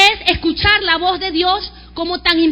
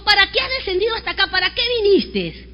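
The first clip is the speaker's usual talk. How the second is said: put-on angry older brother; 3 semitones higher than usual. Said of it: "se encendió en ira contra su hermano".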